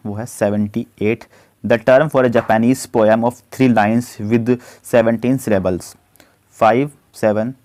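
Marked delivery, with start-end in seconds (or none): 1.6-6.0 slow, deliberate dictation of the question; slow question read-out. Acted. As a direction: read it out word by word for students. Reads quiz question slowly. (धीमी आवाज़ में प्रश्न पढ़ना)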